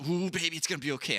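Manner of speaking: sweet-talking his shaking SUV at speed; mock soothing. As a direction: comfort the car like a pet. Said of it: "So I'm like".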